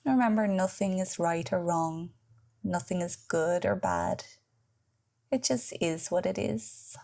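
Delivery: measured guided relaxation voice with long pauses; guided meditation. Acted. Yoga teacher leading listeners into Yoga Nidra, guided meditation. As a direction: guide the listener into rest, leaving space between phrases.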